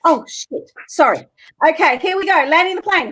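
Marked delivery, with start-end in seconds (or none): none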